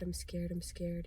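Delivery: hushed, fearful whisper; scared whisper. Real, not acted. Admitting fear.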